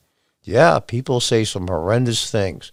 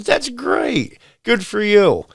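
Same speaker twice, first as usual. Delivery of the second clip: president's approval; 8 semitones higher, slower than usual. Retold or imitated. President congratulates the couple.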